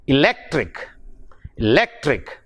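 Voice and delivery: "electric" with the weight on "lec"; e-LEC-tric, for "electric"; stress on second syllable. Shown as a demonstration. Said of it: "the stress is on lectric".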